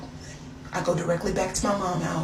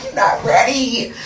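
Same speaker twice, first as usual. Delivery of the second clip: emphatic teasing warning; 3 semitones higher, 5 dB louder than usual. Real, not acted. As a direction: hype up the listener. Teasing repeat of line 2.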